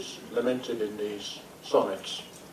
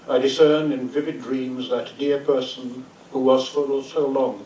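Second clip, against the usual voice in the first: measured, declaimed sonnet with pauses between phrases; poem reading. Acted. Poet reads a lament for a drowned beloved, solemn recitation.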